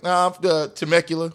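lightly imitated country accent; put-on country accent. Southern California local at Stagecoach, mock country accent. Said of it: "Why are you talking like this".

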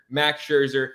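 ordinary talk, nothing marked

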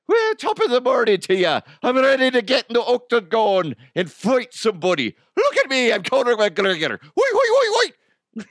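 very high, loud cartoon Irishman; over-the-top squealing Irish fighter; Conor McGregor. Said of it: "the Huff's Conor McGregor".

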